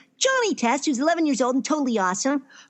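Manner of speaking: put-on eleven-year-old kid voice. Listing cartoon roles he voices, speaking as Johnny Test: Johnny Test voice. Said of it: "the voice of".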